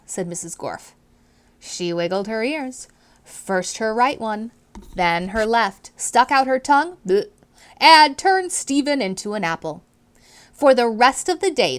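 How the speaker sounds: clear, expressive read-aloud to a class; storybook reading voice; reading to children. A narrator's reading. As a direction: read it out like a teacher sharing a book. Teacher narrating chapter to class.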